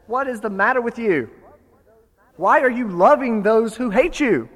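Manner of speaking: loud, high furious scolding; enraged lecture. Retold or imitated. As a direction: tear into the king.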